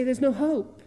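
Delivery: loud, harsh announcement of no hope; loud, high, hopeless declaration; blunt cruel news. Retold or imitated. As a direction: bark it out like cold messengers. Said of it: "they say".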